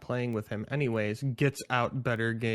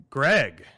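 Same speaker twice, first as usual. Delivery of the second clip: censor bleep; 8 dB louder than usual. Pretend. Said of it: "can you say Greg for me".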